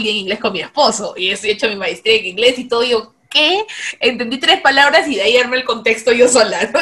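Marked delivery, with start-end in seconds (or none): 3.3-3.6 baffled what. Retold or imitated. Not understanding the phone caller.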